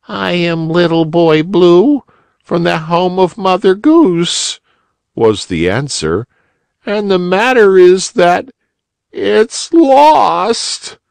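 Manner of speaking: put-on very high, small weepy child; a lost child near tears; tearful little boy. A narrator's reading. Little Boy Blue answers.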